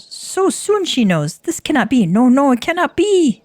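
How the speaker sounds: dismayed kobold. Acted. Kobold panics at the news.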